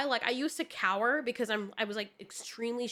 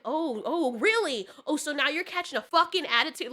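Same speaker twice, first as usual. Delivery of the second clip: sarcastic, challenging retort; indignant mock confrontation; retold indignation; 3 semitones higher, 3 dB louder than usual. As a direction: act out a mildly heated "oh, really?" comeback. Retold angry reply to husband.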